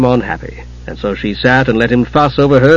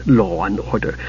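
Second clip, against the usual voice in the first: tirade. Acted. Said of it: "Tika's tirade".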